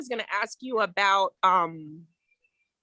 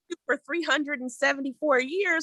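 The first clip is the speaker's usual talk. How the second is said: brother-in-law; 5 semitones higher than usual. Retold or imitated. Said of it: "that's what my brother-in-law was like".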